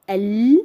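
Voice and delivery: "al" with the l clearly sounded; lam qamariya. Shown as a demonstration. Teacher showing lam qamariya, pronounced l. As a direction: finish "al" on a clear, held l. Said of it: "in lam qamariya".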